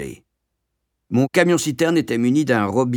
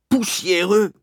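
"Poussiéreux?" yelled much higher and louder; outraged yell; 10 semitones higher, 3 dB louder, slower than usual. A narrator's reading. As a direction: hurl "Poussiéreux?" back in disbelief. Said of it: "hurla-t-il". ("Poussiéreux?" hurlé, indigné)

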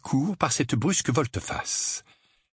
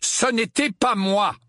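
higher, slower, insistent denial; less calm; 11 semitones higher, 3 dB louder, slower than usual. A narrator's reading. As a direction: protest with calm starting to slip. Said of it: "d'une voix un peu moins calme". (voix moins calme, sur la défensive)

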